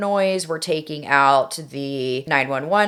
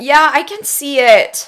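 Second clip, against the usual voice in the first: put-on high, pleading frightened girl; 911 caller; 7 semitones higher, 7 dB louder than usual. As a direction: beg for help, panicked. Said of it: "I am going to be Melissa".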